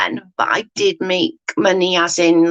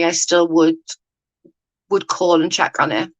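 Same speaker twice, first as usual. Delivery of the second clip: talking round a mouthful; words muffled by food in mouth; mouth full; 2 semitones lower than usual. Real, not acted. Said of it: "I got something in my mouth".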